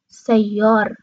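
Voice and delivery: سیار ending on a closed r; r without a vowel. Shown as a demonstration. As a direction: stop سیار right on the r.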